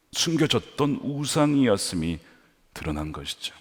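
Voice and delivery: ordinary talk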